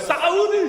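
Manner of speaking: Saudi yelped sharply high, like a hiccup; mock hiccuped sadi, jumping way up in pitch; imitating Saudi guy. Imitating the audience guy saying his country: a high hiccuping sadi. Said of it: "thought he hiccuped".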